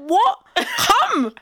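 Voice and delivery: high, short, amused commands; mock baffled summons; retold impatient beckoning. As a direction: lightly mimic someone hurrying a friend over. Friend beckoning mid-road, retold.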